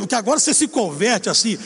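ordinary talk

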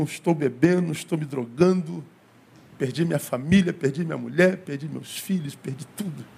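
low, fading, teary retelling of a broken man; mild imitation of a weeping man, trailing off; tearful confession. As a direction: let the voice sink as he lists his losses. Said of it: "com os olhos marejados".

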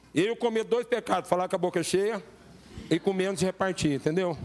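talking through a mouthful of bread; words round a bite of food; mouth full. Real, not acted. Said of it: "Tô falando com a boca cheia".

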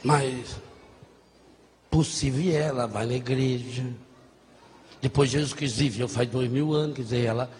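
a low, tired dad reasoning with his son; a hint of a resigned father; lightly voiced father. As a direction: talk it low like a worn-out dad.

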